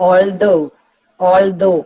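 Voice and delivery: "although" slow, with weight on though; stress on second syllable. Shown as a demonstration. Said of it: "എല്ലിന്റെയും ടീന്റെയും നടുക്കാണ് ഈ vertical line". ("although" എന്നതിൽ though ഊന്നിപ്പറയുക)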